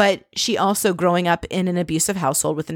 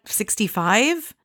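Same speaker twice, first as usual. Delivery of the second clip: slow drawn-out question; 3 semitones higher, much slower than usual. Retold or imitated. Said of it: "And Ramona's like".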